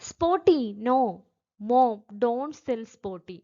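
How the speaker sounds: put-on child starting to cry. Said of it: "കരയാനായിട്ട് തുടങ്ങുകയാണ്".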